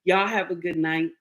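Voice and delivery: a light hint of husband's calm goodbye; imitating husband. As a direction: say it easy, like a man who's done talking. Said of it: "he do just like that".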